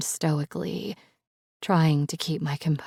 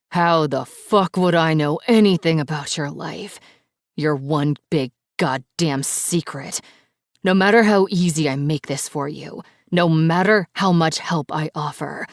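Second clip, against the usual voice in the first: louder, booming angry voice; 5 dB louder than usual. Acted. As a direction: boom it over the line. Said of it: "His voice booms over the line".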